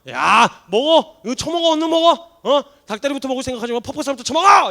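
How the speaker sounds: loud, high hammed-up scolding shout; imagined Jesus yelling at Peter, hammed-up; mock scolding. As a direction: bark orders at him to eat. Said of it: "이러면서 막 혼내면서".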